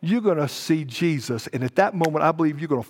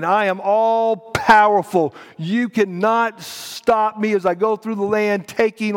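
emphatic, insistent voice of almighty God; God declaring power; 4 semitones higher, 4 dB louder than usual. Acted. Preacher speaks as God striking Egypt, commanding. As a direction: declare it forcefully, stretching key words. Acting out God's defiant declaration.

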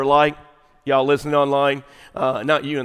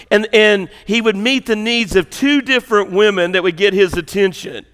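raised, loud preacher's delivery; forceful preaching; 5 semitones higher, 6 dB louder than usual. Real, not acted. Preacher telling church what Jesus will do, forceful preaching. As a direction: preach it out, pitched up and driving.

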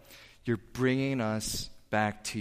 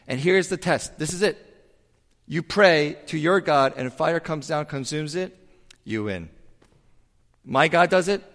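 raised voice, laying out the challenge; loud challenge; 5 semitones higher, 6 dB louder than usual. Retold or imitated. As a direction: call out the terms of the duel, louder. Elijah proposes the fire duel.

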